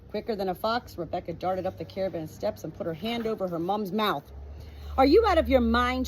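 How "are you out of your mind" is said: hissed. Acted. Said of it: "she hissed".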